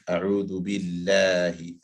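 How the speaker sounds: A'udhu billahi slowly with a thin, light 'lah'; empty-mouth vowel. Shown as a demonstration. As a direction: draw out a light long a in billahi. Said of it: "more empty mouth".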